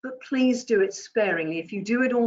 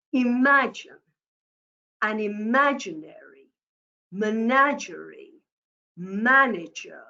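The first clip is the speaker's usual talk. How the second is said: measured exercise pace. Shown as a demonstration. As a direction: say each phrase separately, pausing at every comma. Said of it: "it will give you the pace".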